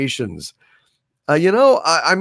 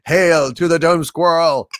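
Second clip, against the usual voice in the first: ceremonial shout; 3 dB louder than usual. Acted.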